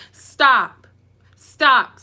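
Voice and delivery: loud, firm stop. Real, not acted. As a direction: shut it down firmly. Firm command to viewers.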